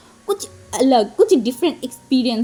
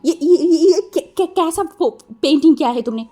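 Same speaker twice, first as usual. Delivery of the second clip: a touch of angry policeman, higher; mock angry; 4 semitones higher than usual. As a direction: sputter in mild mock outrage. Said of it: "बहुत गुस्सा आ गया था".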